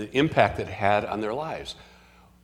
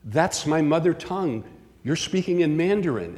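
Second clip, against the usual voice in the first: retold exclamation; 5 semitones higher than usual. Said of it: "she screamed".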